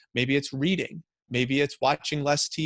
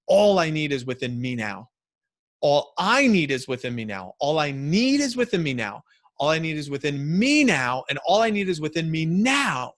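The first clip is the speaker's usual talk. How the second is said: incantation; 2 semitones higher, 4 dB louder than usual. Shown as a demonstration. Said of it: "an incantation where I do it with my body".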